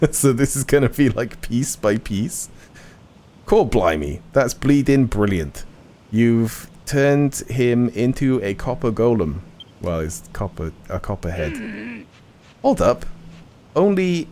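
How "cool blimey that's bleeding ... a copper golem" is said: Cockney. Acted. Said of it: "What's with the Cockney?".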